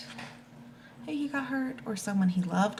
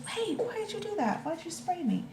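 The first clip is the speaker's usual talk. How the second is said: much higher, indignant cry; upset protest; 11 semitones higher than usual. Acted. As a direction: yelp it out, startled and offended. Sprayed dog protests to skunk.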